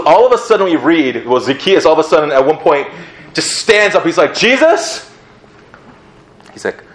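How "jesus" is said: urgent call. Retold or imitated. Zacchaeus stands up, calls.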